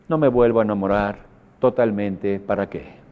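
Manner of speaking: low, fading mopey voice; gloomy dejected sulk. Retold or imitated. Jilted loser swears off love, low dejected sulk. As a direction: sink into self-pity.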